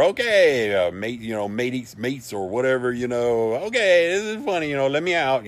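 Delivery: hammed-up Australian calling out, pitched high; mock Australian accent. Locked-in tour guide pleading through the door, mock Australian accent. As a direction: call out in a put-on Australian accent. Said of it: "that's my Australian accent".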